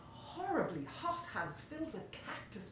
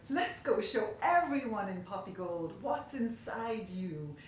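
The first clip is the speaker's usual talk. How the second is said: hollering; 5 dB louder than usual. Acted. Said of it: "Ed hollered".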